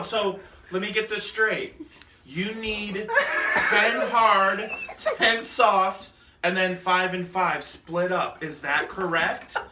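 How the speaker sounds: deliberate, measured clerk voice, lightly imitated; over-enunciating clerk. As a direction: retell her spelling it out carefully, phrase by phrase. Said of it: "overusing her words, talking like this".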